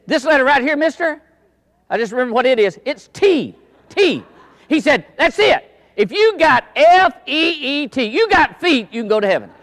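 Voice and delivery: high, loud joyful exclamation; mock-triumphant pastor's big reveal; triumphant retelling. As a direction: deliver the punchline with glee. Retelling the triumphant final line.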